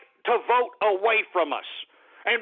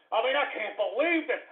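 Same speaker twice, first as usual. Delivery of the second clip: softer, weary disbelief; subdued disbelief; 5 dB quieter than usual. Real, not acted. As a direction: say it under the outburst, softly. Dismay, first take before outburst.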